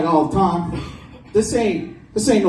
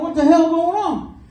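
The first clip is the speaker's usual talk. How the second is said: his own voice pushed way up; high-pitched self impression; 10 semitones higher than usual. Comic retelling his school pickup, squeaky high self voice. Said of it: "It's like three octaves higher".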